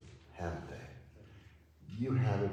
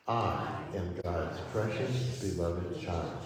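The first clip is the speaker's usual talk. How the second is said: "I" drawn out on its own, then the rest falls away; stress on I; 4 semitones lower, slower than usual. Shown as a demonstration. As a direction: slowly lean on the opening word "I". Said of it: "as we emphasize each word".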